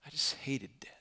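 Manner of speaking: soft, whispery and heavy with loss; hushed grief. Real, not acted. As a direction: let it fall almost to a whisper. Grief refrain in testimony of losses.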